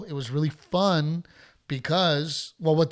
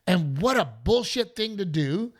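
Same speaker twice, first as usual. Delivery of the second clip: mock heckler woman; 5 semitones higher than usual. Heckler woman complaining to the comic, high mock whine. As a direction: whine out the grievance. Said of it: "She goes".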